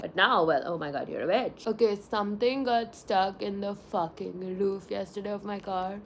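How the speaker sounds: ordinary talk, nothing marked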